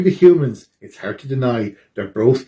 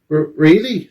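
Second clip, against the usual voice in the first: surprised Boris; 4 semitones higher than usual. Acted. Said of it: "says Boris".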